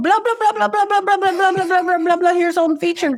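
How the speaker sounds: high, mocking blah-blah; sing-song mock babble; droning salesman. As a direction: parody of a sales pitch.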